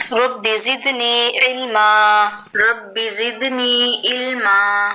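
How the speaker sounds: slow, reverent recited prayer; slow prayer recitation. Real, not acted. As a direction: chant it slowly like a dua. Recited prayer before lesson. (آہستہ دعا کی قراءت)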